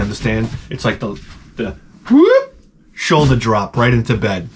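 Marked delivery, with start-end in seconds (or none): 2.1-2.5 short, high "whoop"; high-pitched whoop. Retold or imitated. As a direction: let out a quick high whoop. Mimics noise of flop into bed.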